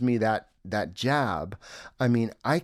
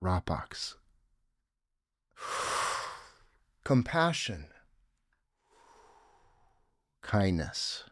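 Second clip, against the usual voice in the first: soft and slow with sighs; 5 semitones lower, 6 dB quieter than usual. Shown as a demonstration. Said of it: "I am at the pause where I am out of breath".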